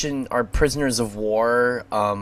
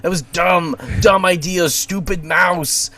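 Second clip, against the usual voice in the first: higher-pitched, emphatic self-reproach; mock self-scolding; 4 semitones higher than usual. Arya calling herself a stupid mouse, mock self-scolding. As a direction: scold yourself in a raised, exasperated voice. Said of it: "and she goes".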